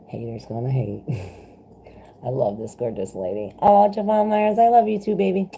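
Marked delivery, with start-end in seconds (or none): 3.6-5.5 higher, louder sweet gush; light up at the comment; pitched-up loving reply; excited affection. Real, not acted. Answering viewer's love in chat.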